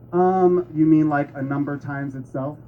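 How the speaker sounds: a student guessing uncertainly; unsure student. Shown as a demonstration. Sarah guessing the definition, unsure. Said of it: "allow me to demonstrate".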